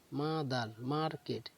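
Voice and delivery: "মাদার" and "মার্কেট" each broken into two beats; two-beat syllable split. Shown as a demonstration. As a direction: say মা-দার, মার-কেট with a small break inside each. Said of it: "এগুলো তাহলে দুবার করে যখন থামবো". ("মাদার", "মার্কেট" দু'ভাগে ভেঙে বলা)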